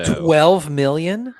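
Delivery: stunned, slow high echo; surprised. Real, not acted. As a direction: repeat it in disbelief. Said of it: "echoing in disbelief".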